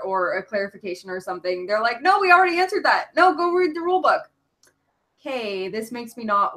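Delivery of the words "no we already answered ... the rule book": dismissive. Retold or imitated. Retold dismissive official replies.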